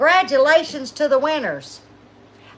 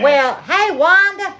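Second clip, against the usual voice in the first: excited greeting; 6 semitones higher, 5 dB louder than usual. Real, not acted.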